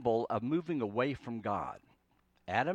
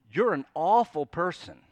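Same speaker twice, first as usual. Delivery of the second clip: loud mock accusation; crisis language; 3 semitones higher, 8 dB louder than usual. Preacher acting out heated words we use, loudly accusing. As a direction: hurl it as an overblown insult. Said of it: "It's these extreme, uh, words that we use".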